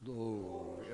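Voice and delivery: very deep, soft Glory in a famous singer's style. Retold or imitated. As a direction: drop to a deep velvet bass. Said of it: "Say it like Barry White".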